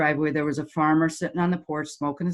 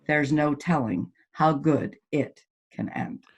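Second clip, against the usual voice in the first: slow emphasis; 3 semitones lower, 3 dB quieter, slower than usual. Real, not acted. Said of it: "repeated closing line slowed".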